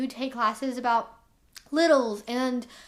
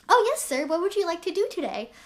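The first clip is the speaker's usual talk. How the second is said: higher, bubbly, playful puppy voice; demonstrating a sweet-talk voice, higher and bubbly; little baby voice; 5 semitones higher, faster than usual. Shown as a demonstration. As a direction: pitch up into a playful, eager little voice. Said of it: "like, a baby voice".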